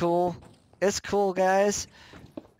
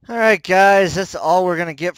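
announcing loudly; 4 semitones higher, 10 dB louder than usual. Real, not acted. Loud wrap-up to viewers.

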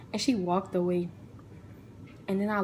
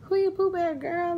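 higher, louder disbelief; Who you Pooh Bear, shot back in shock; incredulous; 9 semitones higher, 5 dB louder than usual. Retold or imitated. To her friend about Pooh Bear, stunned disbelief.

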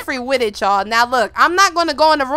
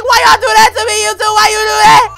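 mock crying plea; 8 semitones higher, 7 dB louder, faster than usual. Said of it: "I was crying like him. I'm like".

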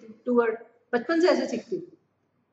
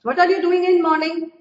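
very slow, higher and louder example; 6 semitones higher, 6 dB louder, much slower than usual. Shown as a demonstration. Teacher giving an example sentence to students, very slow and loud. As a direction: read it slowly for the class. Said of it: "ये ठीक है".

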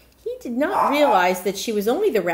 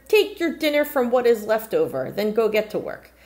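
bossy cook; 3 semitones higher, 5 dB louder than usual. Acted. Cook ordering Razel.

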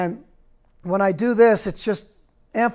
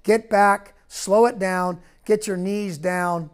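firm called-out drill cues; coaching cues; slower than usual. Shown as a demonstration. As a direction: call them out to the players on the field. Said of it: "So now I'm emphasizing".

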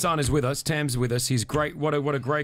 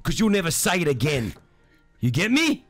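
Australian Lebo hard man. Pretend. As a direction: threaten him like a mild Aussie heavy. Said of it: "like an Australian Lebo would do it".

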